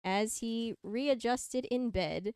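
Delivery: measured fan-fiction read-aloud; story narration. A narrator's reading. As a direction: read it out like a storybook, leaning on key words.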